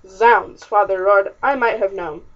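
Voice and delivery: loud, outraged oath; furious father. Acted. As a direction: bellow it as an angry father. Father finds beds empty, furious.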